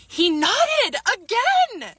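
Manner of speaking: high, loud, drawn-out disbelief between laughs; incredulous squeal. Real, not acted. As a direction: squeal each word slowly, about to crack up. Laughing disbelief at his nod.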